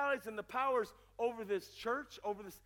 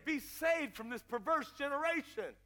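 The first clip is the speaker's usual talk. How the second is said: measured reading, slightly raised; scripture exhortation; 4 semitones higher than usual. Acted. Preacher quoting the apostles' exhortation, earnest measured reading. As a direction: read it out as an earnest appeal.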